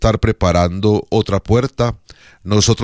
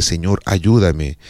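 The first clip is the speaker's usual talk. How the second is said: an unhurried humble plea; simple prayer; 3 semitones lower, slower than usual. Shown as a demonstration. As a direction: say it slowly, as a trusting prayer.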